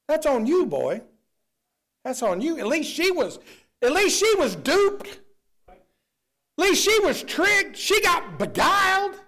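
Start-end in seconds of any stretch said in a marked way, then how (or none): 3.8-9.2 high, slow, loud build; preaching at full force; rising preacher shout. Real, not acted. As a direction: drive each phrase harder at the crowd.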